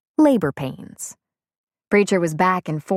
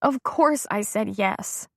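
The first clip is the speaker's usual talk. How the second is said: slow, lightly tearful reply; a touch of sniffle, drawn out; sniffling; 3 semitones higher, slower than usual. A narrator's reading. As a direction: answer slowly, holding back tears. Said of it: "she sniffed".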